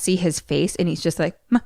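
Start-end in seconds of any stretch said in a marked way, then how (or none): 1.5-1.6 high, stuttering terrified call that builds louder; a boy so scared he can barely get the word out, rising to a shout; stammering in fear. Retold or imitated. Scared boy stammering for his mom, building to a high loud cry. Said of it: "he can barely talk at first".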